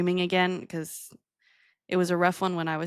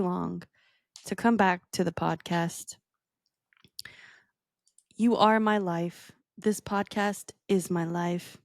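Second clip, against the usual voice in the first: reading a love letter. Pretend. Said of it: "a letter from me to you".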